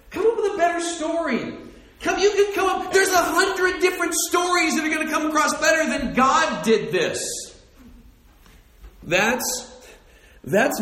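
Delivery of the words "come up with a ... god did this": much higher and louder, building incredulity; exasperated shout. Retold or imitated. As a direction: shout it like you can't believe that excuse. Preacher's incredulous retort to Mary.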